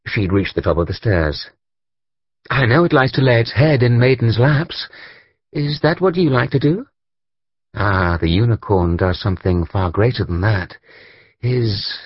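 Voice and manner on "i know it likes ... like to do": put-on lightly higher girl's voice, curious; a hint of the girl asking with interest; girl questioning the painter about unicorns, lightly pitched up; young girl's voice. Narrator voices the girl Claude.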